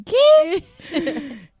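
high, loud mock "what?"; incredulidad actuada. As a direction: blurt it out in mock bafflement. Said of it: "yo es como que". (incredulidad exagerada, en tono agudo)

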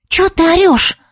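Юлька sharply scolds Ия for yelling; snapping at her. A narrator's reading. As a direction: tell her off for the noise. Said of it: "напустилась Юлька на Ию".

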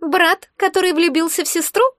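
mock her with a smug little jab; snide egg creature. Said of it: "ехидно уточнило яйцо".

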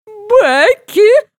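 high, loud horrified scream; mother's cry of terror. Retold or imitated. Mother screaming in horror at her daughter on the roof. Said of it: "в ужасе вопит мама".

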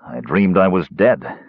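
understated heaviness; heavy. Acted. Caramon waking from a dream of death, mildly heavy. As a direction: say it with a touch of weight. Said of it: "he said heavily".

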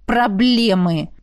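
"Проблемы" slowly on a mock sigh, falling; theatrical sigh. The program pretending to sigh over the sisters. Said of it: "сказал нарочито, громко вздыхая".

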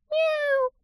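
high, soft cat meow. A narrator's reading. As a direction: mew like a real cat, barely audible. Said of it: "повторила Лилит".

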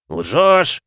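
high falsetto cry, loud; falsetto shriek. Acted. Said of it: "высоким фальцетом вскричал".

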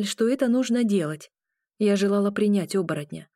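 ordinary delivery

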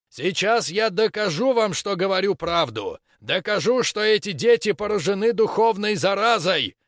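high, loud zealous preaching. Acted. Preacher accuses children publicly.

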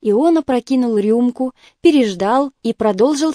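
ordinary delivery

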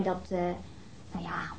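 embarrassed whisper. Acted. Embarrassed sexual confession to detective.

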